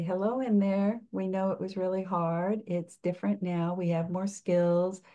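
mild, soothing acted reassurance; gently reassuring. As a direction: speak kindly to a frightened little one. Coach voices words to inner child.

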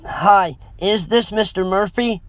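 high-pitched, worried woman on the phone. A narrator's reading. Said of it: "The worried tone in the woman's voice".

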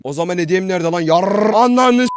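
loud, high mock outrage; fake reaction. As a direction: ham up the fury. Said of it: "yalandan tepki". (yalandan tepki, yüksek sesli sahte öfke)

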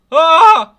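very loud high scream; jump-scare scream. Real, not acted. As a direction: shriek in sudden fright.

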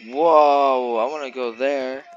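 amazed. Real, not acted. Amazed at view.

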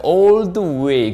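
very drawn-out "All the way"; slow model phrase. Shown as a demonstration. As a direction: stretch each word of the key phrase. 강사가 핵심 표현 시범. (아주 길게 늘여 말하기)

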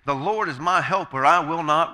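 loud, firm scriptural declaration; bold declaration. Acted. Preacher quotes what believers can boldly say, loud and bold. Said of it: "so that we can boldly say".

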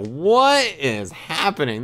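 drawn-out, incredulous question; mock disbelief. Diner watching his friends fall apart, stunned disbelief. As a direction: stretch it out in baffled amazement.

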